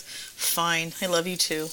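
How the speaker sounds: low, soft, reluctant concession; imitated grudging child. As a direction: lightly imitate a kid giving in. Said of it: "He goes".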